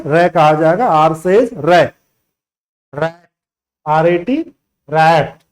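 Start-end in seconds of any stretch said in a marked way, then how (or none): 0.1-0.3 "रै" as a short "reh" with a tongue-tip r; R sound. Shown as a demonstration. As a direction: say "रै" as the phonics sound of R. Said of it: "R को क्या कहा जाएगा?".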